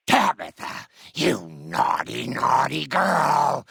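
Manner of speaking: loud, high granny telling-off; scolding grandma. Acted. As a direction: scold a child, dragging out the last words. Grandma scolding a naughty girl.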